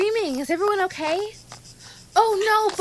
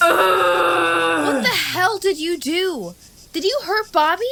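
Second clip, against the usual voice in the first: angry demand; 6 semitones higher than usual. Acted. Lane confronts Susan angrily.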